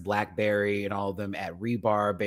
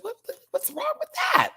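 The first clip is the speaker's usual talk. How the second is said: much higher, squealing indignation; retold indignant. Host retelling reaction to critics, high indignant squeal. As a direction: ask it like the question is absurd. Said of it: "I was just like".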